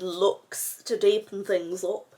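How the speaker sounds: put-on northern English accent. Explaining the next eyeshadow step, in a northern accent. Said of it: "I do this northern accent".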